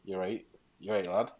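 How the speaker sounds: "eight" in northern dialect for "right", with a questioning lift; "eight" as northern slang for all right, tune rising; northern "rate". Shown as a demonstration. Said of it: "we say the word rate".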